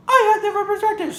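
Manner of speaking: put-on high-pitched girly voice; very high, quick teasing imitation; Chris. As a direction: squeak it out fast in a mock-girly falsetto. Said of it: "I gave you kind of a high-pitched, girly voice".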